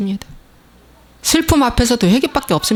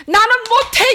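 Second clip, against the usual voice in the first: high anguished wail; acted cry of despair; desperate outcry; 14 semitones higher, 4 dB louder than usual. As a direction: cry out in helplessness. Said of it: "사도 바울이 절규했잖아".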